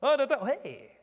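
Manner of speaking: hammed-up awkward reply; mock flustered customer. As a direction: stammer back at the greeting. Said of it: "And I'm like".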